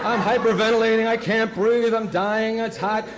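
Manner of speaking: mock panic. Panic attack in the heat.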